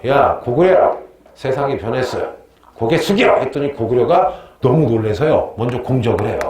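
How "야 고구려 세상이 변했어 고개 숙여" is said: mock bossy shout at Goguryeo; 거만하게 꾸짖듯, 끝을 크게; arrogant Sui king. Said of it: "고구려에게 시비 걸어요". (고구려에게 시비 거는 수나라 왕, 거만한 호통)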